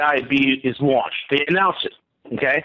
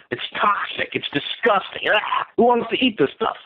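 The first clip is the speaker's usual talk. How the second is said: half-whispered revulsion at rotten food; disgusted; 4 semitones higher than usual. Real, not acted.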